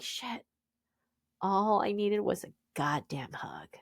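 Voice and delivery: hushed, breathy curse under breath; bitter whisper. Real, not acted. Telling her co-host her pain, whispered. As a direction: let it slip out in a whisper. Bitter aside after family quotes.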